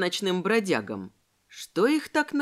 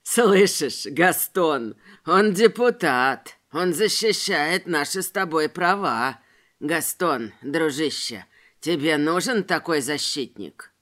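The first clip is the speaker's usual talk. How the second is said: sneering tramp; 5 semitones lower, 3 dB louder, slower than usual. A narrator's reading. Tramp mocks deputy to Gaston.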